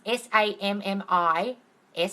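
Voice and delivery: spelling out S A M M I S letter by letter; spelled out. Shown as a demonstration. Spelling the name for viewers, letter by letter. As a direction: slowly spell out S A M M I S. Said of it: "that's how you spell his name".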